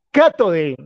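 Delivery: "Cátode" with a final e replacing o; German-style "Cátode", first syllable stressed; translated German pronunciation. Shown as a demonstration. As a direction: say "Cátode" as KAH-to-de. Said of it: "el internet me ayudó".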